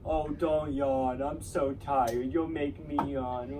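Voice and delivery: slow, whiny mock complaint. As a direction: drag it out like an annoying classmate. Mocking annoying yawn-complainers.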